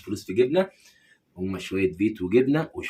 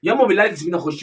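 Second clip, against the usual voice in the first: much higher, louder whining son; whiny son; 7 semitones higher, 5 dB louder than usual. Acted. Son to mother barred from home, high whiny plea. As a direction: whine at mom like a spoiled boy.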